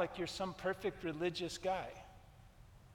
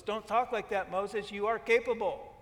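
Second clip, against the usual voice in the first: mock God voice; 3 semitones higher, 5 dB louder than usual. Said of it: "God doesn't say that".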